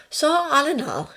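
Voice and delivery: high-pitched nursing sister; ward sister. Acted. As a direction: pitch it well up as a composed sister.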